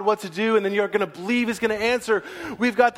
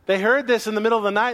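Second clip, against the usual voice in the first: laughing; 3 semitones higher, faster than usual. Real, not acted. Excited retelling with laugh.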